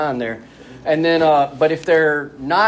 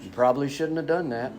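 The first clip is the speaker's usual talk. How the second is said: calm voice; 5 dB quieter than usual. Retold or imitated. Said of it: "he's always very calm".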